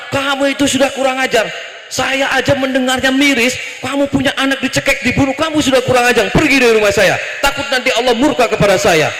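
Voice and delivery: scold, then order the person out; Nabi Musa scolding. Acted. Prophet throwing out the pleading woman, acted anger. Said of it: "Nabi Musa langsung ngamuk".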